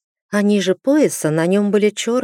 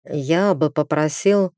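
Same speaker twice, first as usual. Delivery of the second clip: slow, wavering start; unsure, holding back the request; hesitant; slower than usual. Acted. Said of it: "Зор поколебался". (нерешительно, с запинкой)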